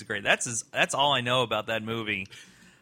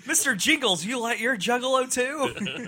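silly clown; 11 semitones higher than usual. Acted. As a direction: play a goofy clown character. Clown character voice.

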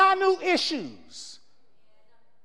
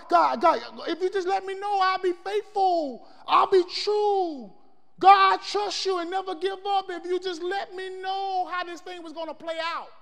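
raised, pleading cry to God; pleading prayer; 3 semitones higher than usual. Retold or imitated. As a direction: beg God for a sign, voice lifted. Preacher voicing pleading prayer to God.

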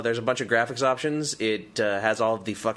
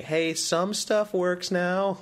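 mock cheerful; 6 semitones higher, much slower than usual.

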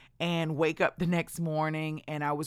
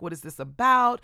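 higher and louder, demanding; confronting boss; 6 semitones higher, 5 dB louder than usual. Retold or imitated. Big boss confronting the recruiter, loud demand. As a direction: bark the question at her.

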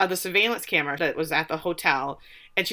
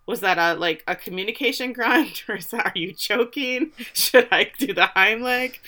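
sassy; 2 semitones higher than usual. Retold or imitated. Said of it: "best sass".

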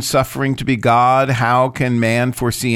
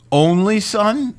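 incredulous question, pitched high and rising; querying; 9 semitones higher, slower than usual. Acted. Midrash challenges God's words to Abraham, querying.

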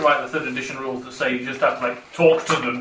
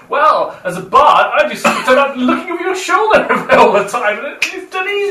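lightly voiced bard; 9 semitones higher, 5 dB louder than usual.

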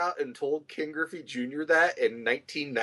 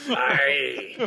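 Scottish aye; 3 semitones lower, 4 dB louder than usual. Pretend. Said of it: "a Scottish accent".

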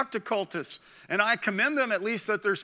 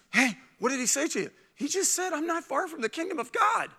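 high, excited astonishment; acting out a thrilled man, voice lifting high; amazed, elated listener; 8 semitones higher than usual. Thrilled man telling others what Jesus told him, excited. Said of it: "imagine how that guy felt".

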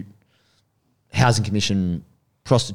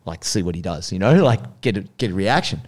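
low, hushed instruction to a crew member; like a boss quietly setting up a test; imitating Paul's low quiet voice; 4 semitones lower, 3 dB quieter than usual. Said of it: "was like".

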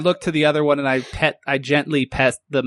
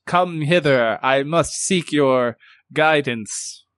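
mock summons; slower than usual.

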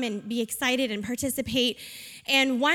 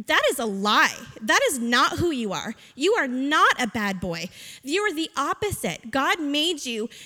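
firm, punched affirmations, word by word; emphatic reassurance; 3 semitones higher than usual. Retold or imitated. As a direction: insist on the child's worth with strong stresses. Firmly reassuring the boy, retold.

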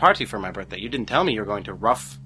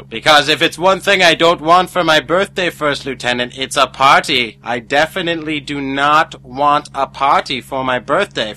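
loud insisting; 4 semitones higher, 6 dB louder than usual. Acted. Insisting no party.

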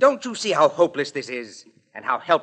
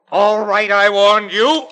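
loud, higher final warning; threatening; 6 semitones higher, 8 dB louder, slower than usual. Acted. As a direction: fire off the warning. Payne about to shoot.

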